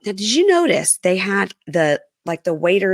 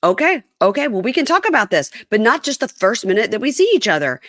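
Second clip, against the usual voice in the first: imitating exasperated husband; 4 semitones higher than usual. Voicing exasperated husband in quarrel.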